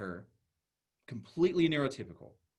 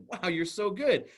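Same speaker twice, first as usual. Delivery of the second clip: impressed praise; 5 semitones higher, slower than usual. Retold or imitated. Praising hula hooping child.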